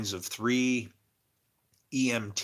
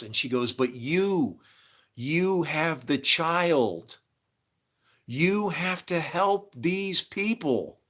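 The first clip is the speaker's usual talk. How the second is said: slow, higher, solemn prophetic voice; mystic lady; 4 semitones higher, 3 dB louder, slower than usual. Retold or imitated. Medium lady telling him about angels. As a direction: intone it like a seer.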